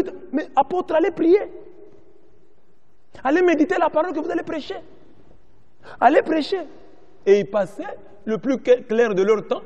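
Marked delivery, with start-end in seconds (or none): 0.3-6.7 higher-pitched mock plea; acted exhortation. Congregation voiced urging the apostles to go pray, high-pitched exhortation. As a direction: urge them on in a raised pitch.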